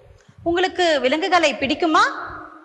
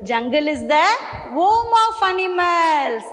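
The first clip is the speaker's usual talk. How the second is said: slow model sentence; much slower than usual. Shown as a demonstration. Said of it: "teacher models sentence to repeat".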